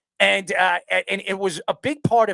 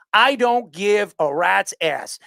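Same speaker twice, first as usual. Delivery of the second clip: slow, drawn out and deliberate; stretched-out defiant brush-off; slow defiance; much slower than usual. Real, not acted. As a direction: spell out that you don't care. Defiant rant.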